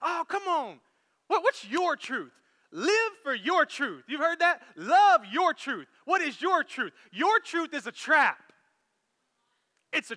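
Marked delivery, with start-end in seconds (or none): 0.0-4.0 a light, wheedling imitation of culture; a hint of a persuasive tempter; mock coaxing culture voice. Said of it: "That's what culture tells you". 4.8-5.9 slow, pushed-out imitation of the culture slogan; a mock slogan, drawn out; mock coaxing culture voice. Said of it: "That's what culture tells you".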